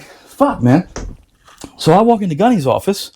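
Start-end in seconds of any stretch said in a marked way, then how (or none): 0.0-0.9 dismayed curse. Retold or imitated. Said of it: "so I'm like".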